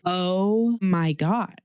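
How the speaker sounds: slow, stunned oh my god. Retold or imitated. Mom frozen in shock at the vomit, drawn out. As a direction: drag it out in disbelief. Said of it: "I'm just standing there like".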